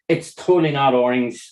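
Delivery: teasing. Acted. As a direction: tease the chat. Teasing the chat's orange guess.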